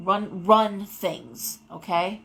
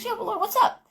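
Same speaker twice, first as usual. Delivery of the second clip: boss answering; 12 semitones higher, faster than usual. Retold or imitated. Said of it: "she said".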